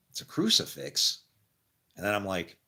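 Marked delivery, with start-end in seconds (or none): 0.1-1.2 higher, amazed reveal; surprised discovery. Retold or imitated. Telling of finding a cross in the grass, amazed. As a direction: gasp it out like finding treasure.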